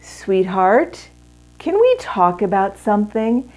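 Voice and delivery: loving tone. Shown as a demonstration. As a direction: ask tenderly, inviting him to talk. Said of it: "the tone of voice communicates everything".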